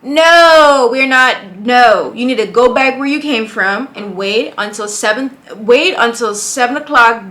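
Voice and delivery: scolding. Real, not acted. Reactor yelling at the early date, scolding. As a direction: snap at her to go back and wait.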